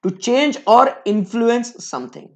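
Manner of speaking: slow, flowing repeat of the phrase. Shown as a demonstration. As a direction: repeat it slowly for the notes. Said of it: "repeat of definition". ("to change or influence something" धीरे दोहराना)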